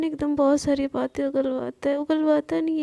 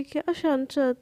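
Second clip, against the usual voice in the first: irritated mocking echo. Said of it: "बोलती है".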